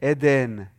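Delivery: Eden with an open EH at the start, EH-den; correct Hebrew pronunciation. Shown as a demonstration. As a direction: model Eden slowly as "EH-den". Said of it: "Can you say Eden?".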